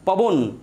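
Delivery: পবন closed on the final n, then a pause; closed syllable. Shown as a demonstration. Teacher showing that breath gets blocked, closing পবন on its last consonant. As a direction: shut the breath off as পবন ends. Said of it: "শ্বাসটাকে রুদ্ধ করে দিচ্ছে".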